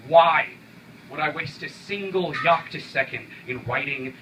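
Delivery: climactic cry. Acted. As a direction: hit it hard before the pause. Climactic rhetorical question.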